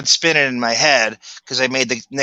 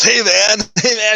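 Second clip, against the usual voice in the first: imitating Jim Carrey; 7 semitones higher than usual. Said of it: "And he goes".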